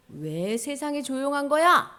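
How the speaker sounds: mild, slow indignant demand; a touch of divine anger, drawn out; lightly acted angry God. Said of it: "하나님은 지금 화가 나셨어".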